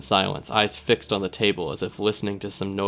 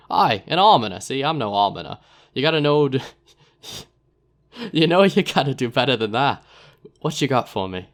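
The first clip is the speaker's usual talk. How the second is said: louder put-on rough accent with a laugh; chuckling dealer in a rough accent; Narbo's rough accent; 4 semitones higher, 4 dB louder than usual. Narbo turning down the player in a rough accent. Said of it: "Narbo's a man of many accents".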